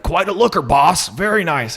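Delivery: lightly voiced sly compliment; Captain Ron leering. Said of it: "he's like".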